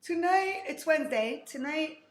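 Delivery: talking through a yawn; stretched, yawny words. Real, not acted. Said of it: "I'm sorry I'm yawning".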